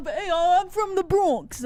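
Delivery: mock Bronx accent, lightly caricatured. Co-host imitating how Bronx locals talk, mock Bronx accent. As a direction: put on a goofy Bronx accent. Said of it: "now this retarded Bronx".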